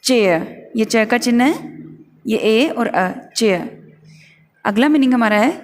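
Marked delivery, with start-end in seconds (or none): 0.0-0.7 चेयर said as cheh with no r sound; teacher modelling चेयर without r; silent r. Shown as a demonstration. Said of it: "आर को silent करके". 3.3-3.8 चेयर said as cheh with no r sound; teacher modelling चेयर without r; silent r. Shown as a demonstration. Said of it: "आर को silent करके".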